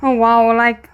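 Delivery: impressed gasp. Real, not acted. Impressed reaction to the actor.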